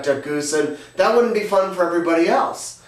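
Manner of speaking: lightly voiced child, explaining; a hint of a pleading kid; earnest kid. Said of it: "And he says".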